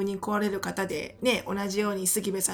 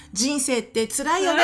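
parody church talk. Retold or imitated. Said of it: "みたいなさ".

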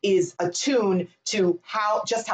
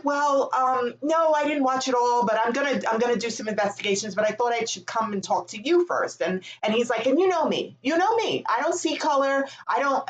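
much higher, defensive boss voice; mocking the boss; 4 semitones higher than usual. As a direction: play the flustered boss protesting he means well, pitched high.

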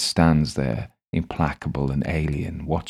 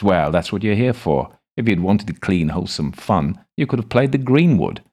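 sardonic gentleman; 5 semitones higher, 5 dB louder than usual. Acted. Crowley mocks Adam's squeamishness.

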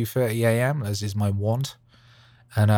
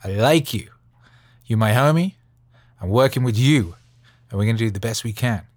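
hyped-up pep talk. Pretend. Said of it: "and just be like".

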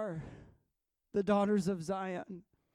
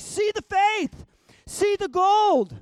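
divine voice; 12 semitones higher, 11 dB louder, slower than usual. Retold or imitated. God's voice in her dream.

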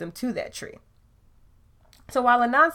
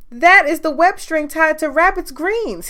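louder, higher alarmed voice; 7 semitones higher, 10 dB louder than usual. Acted. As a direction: sound alarmed and rushed. Anansi alarmed by tugs.

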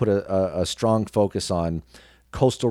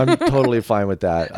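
a real laugh, a bit louder; 3 semitones higher, 5 dB louder than usual. Real, not acted. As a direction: chuckle it off, owning it. Laughs off being the sidekick.

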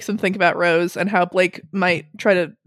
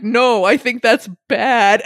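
slow, laughing through the words; laughing as she quotes a friend's flat refusal; 3 semitones higher, 3 dB louder, slower than usual. Retold or imitated. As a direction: fight back laughter while saying it. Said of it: "Peter's like".

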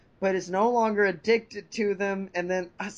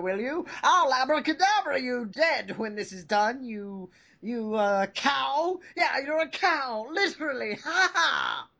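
high taunting voice; 3 semitones higher than usual. Acted. Character taunting rival in high voice.

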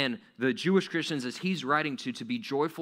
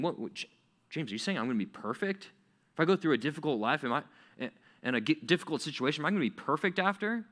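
incredulous questioning; faster than usual. Acted. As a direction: play a baffled listener questioning the author. Acts listener's doubting question to James.

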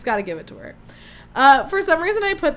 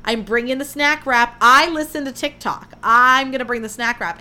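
louder, boastful announcement; cocky brand voice; 5 dB louder than usual. Retold or imitated. Host voicing Burger King answering fans, louder and boastful. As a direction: swagger as if the company is talking. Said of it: "They said".

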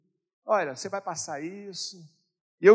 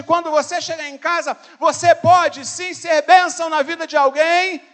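loud, high, driving sermon voice; preaching at full force; 11 semitones higher, 14 dB louder than usual. Acted. Pastor urging the church to call lonely people, preaching at full force. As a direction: push every line out to the whole church. Preacher urges calling someone tonight.

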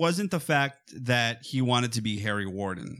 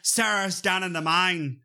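higher, mock British-Irish accent; muddled accent impression; 5 semitones higher than usual. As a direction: mimic an actor's wandering accent. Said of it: "between all these different accents".

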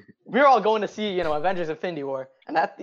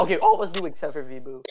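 voice cracking; 3 semitones lower, faster than usual. Real, not acted. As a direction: voice cracks mid-phrase. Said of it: "Ignore that voice crack".

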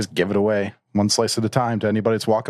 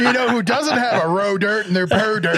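silly mock accent; 10 semitones higher than usual. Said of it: "that's gonna follow me for the rest of this podcast".

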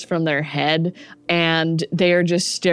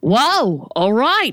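startled human; 4 semitones higher, 4 dB louder, slower than usual. Acted.

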